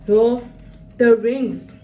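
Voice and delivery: exclaiming. Real, not acted. Upset, finds lost ring footage.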